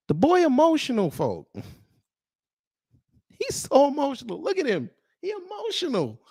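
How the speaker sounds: high, laughing taunt at a sulking troll; mocking laughter. Real, not acted. Streamer laughing at the emotional troll, high mocking voice. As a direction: cackle and tease him for being upset.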